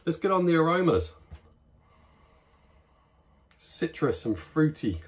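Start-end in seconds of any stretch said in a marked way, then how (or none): 3.6-5.0 talking with nose in glass; muffled by beer glass rim; speaking into a glass. Real, not acted. Seen 0: Glass rim at nose and mouth while sniffing, lowered by 3.3.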